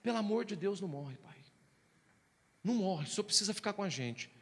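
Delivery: understated desperate pleading; desperate children begging. Retold or imitated. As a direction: imitate children pleading with their father, at a restrained volume. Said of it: "meus dois filhos gritando, desesperado".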